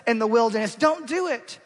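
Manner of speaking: high, loud and urgent, begging God; impassioned plea. Acted. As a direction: plead as if lives depend on it. Moses pleading with God.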